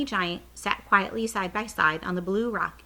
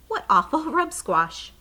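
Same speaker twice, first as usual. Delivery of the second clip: imitating laughter; 8 semitones higher, 7 dB louder than usual. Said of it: "The Queen will be laughing and saying".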